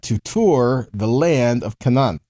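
slow reading, tour leaned on; stress on tour. Shown as a demonstration. Teacher stressing tour to his listeners, slowly. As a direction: dwell on the word tour. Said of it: "that's what we're looking at".

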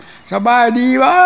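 hammed-up shout stretching every syllable; comic shout. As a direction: yell it slowly as if to a deaf old monk. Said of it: "หลวงพ่อต้องพูดเสียงดังๆนะ".

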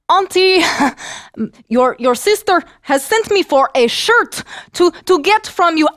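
put-on girl calling up to the witch; timid girl calling. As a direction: call up nervously to the hut.

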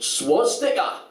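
"swastika" slowly in a Geordie accent; drawn-out Geordie "swastika". Shown as a demonstration. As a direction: put on Geordie for "swastika", stretched out. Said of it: "'cause in a Geordie accent".

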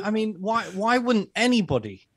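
hammed-up sarcastic disbelief; mock innocent sarcasm. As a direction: play it wide-eyed and mock outraged. Sarcastic praise of Klaus.

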